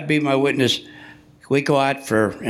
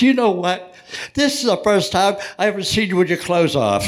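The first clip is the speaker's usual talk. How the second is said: mock-excited, higher-pitched fan; excited lady; 4 semitones higher than usual. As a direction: imitate a lady thrilled at her discovery. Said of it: "She's all excited".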